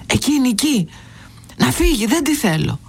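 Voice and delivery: put-on high, stubborn child's yell; insistent shouting boy. A narrator's reading. Boy to headmaster pointing at his mother, insistent high shout. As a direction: keep insisting at the top of the voice. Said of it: "επέμενε να λέει ο μικρός".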